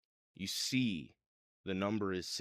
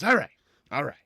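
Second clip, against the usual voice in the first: loud, higher-pitched guard laying down rules; raised guard voice, stretching into a relenting order; gate guard; 6 semitones higher, 7 dB louder than usual. Acted. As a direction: talk down a hothead, firmly and loudly. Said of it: "and the guy goes".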